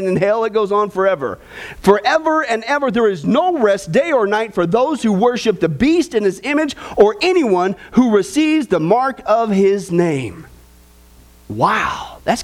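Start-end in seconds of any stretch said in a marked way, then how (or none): 1.8-10.5 lifted, measured Bible reading to the congregation; scripture reading. Acted. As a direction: read the verses out like a preacher at the pulpit. Reads scripture aloud.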